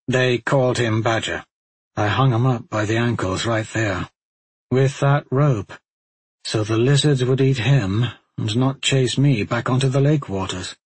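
lightly voiced weary warrior; grim, reluctant admission; grim Talmadge confession.

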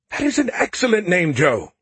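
bright, high eager praise; enthusiastic. A narrator's reading. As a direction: say it with real enthusiasm. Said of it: "Skippy said with enthusiasm".

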